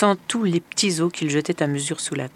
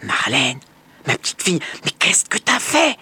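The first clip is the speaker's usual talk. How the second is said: stepmother feigning dismay. A narrator's reading. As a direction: put on shock.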